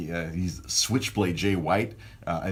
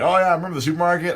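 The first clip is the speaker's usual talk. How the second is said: fans gushing; 10 semitones higher, 6 dB louder, much faster than usual. Retold or imitated. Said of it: "And they're like".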